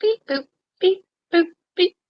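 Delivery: high beeping robot noises; robot beeps. Pretend. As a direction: chirp it like a little robot.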